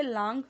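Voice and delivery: लॉन्ग with a long "aa" vowel, "laang"; mispronunciation demo. Shown as a demonstration. Teacher showing students what not to read, mispronounced लॉन्ग as "laang". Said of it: "इसे लॉन्ग नहीं पढ़ना है".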